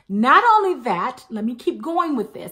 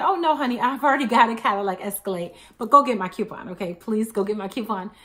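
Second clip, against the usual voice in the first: polite. Retold or imitated. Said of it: "I just politely said".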